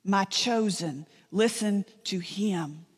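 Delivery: slow, measured proclamation with weighty pauses; voice from heaven. Retold or imitated. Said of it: "a voice from heaven booms".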